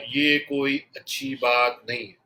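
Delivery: lightly imitated slow, measured orator; a hint of soft, unhurried speech with pauses; Vajpayee. Trainer quoting a calm leader to show tone, slow and measured imitation. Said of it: "ये softly और धीरे बोलते थे".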